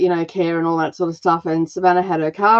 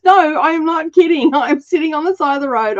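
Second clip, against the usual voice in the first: laughing quote; 8 semitones higher than usual. Retold or imitated. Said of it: "she goes".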